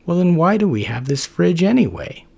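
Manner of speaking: high, loud, puzzled goofy voice; Max the macrophage. Acted. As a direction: dim roommate honestly confused.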